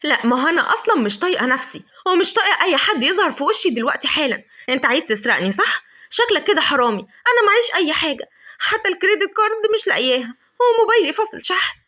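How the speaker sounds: loud, rising to high accusing rant; angry outburst. Acted. Lavender accusing Adham of robbing her, loud high rant. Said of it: "قالت له بعصبية".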